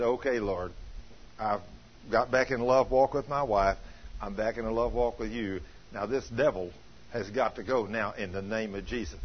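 low, softened, matter-of-fact prayer; calm retold prayer. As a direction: quote a settled prayer, voice dropped low. Retelling man's calm repentant prayer and command.

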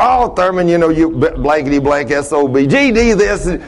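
lightly imitated cussing old man; foul-mouthed old customer. Customer answering mechanic's plea, imitated habitual cussing. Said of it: "not use all them foul words".

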